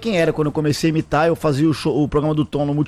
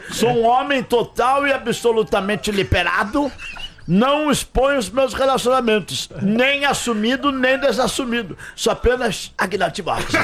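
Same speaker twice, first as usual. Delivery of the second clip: high, slow, pompous self-defence; imitating a singer; 4 semitones higher, slower than usual. Retold or imitated. Guest mimics the singer defending himself, high slow declamation. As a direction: declaim it grandly, stretching every phrase. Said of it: "Aí ele se defende".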